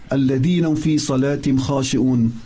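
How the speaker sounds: rapid, flowing recital of the verse; quick Arabic recitation; quick Quran recitation. Acted. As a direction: recite it fast and fluent from memory.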